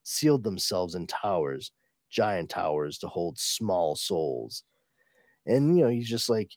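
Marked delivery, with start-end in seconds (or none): 0.0-4.6 low, measured dramatic recital; dramatic comic reading. Acted. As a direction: read it as a grave accusation.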